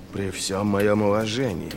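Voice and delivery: slow, insincere courtesy; disrespectful politeness. A narrator's reading. General interrupts the lord marshal, showing disdain through politeness. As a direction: say it politely while meaning the opposite. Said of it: "демонстрируя своим тоном обратное".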